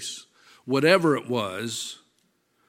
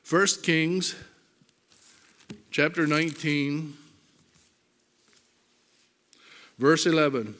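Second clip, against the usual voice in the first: spaced dictation; 4 semitones higher than usual. Shown as a demonstration. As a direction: give the reference piece by piece so they find it. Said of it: "reference repeated for the congregation".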